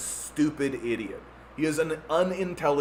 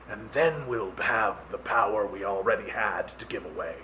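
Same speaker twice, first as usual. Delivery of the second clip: mock government plotter; 3 semitones higher than usual. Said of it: "governments are like".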